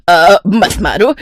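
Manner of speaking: slow, drawn-out plea at normal pitch; pained pleading. Acted. Stepmother begging the girl to stop, slow pained plea. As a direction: plead wearily through the pain.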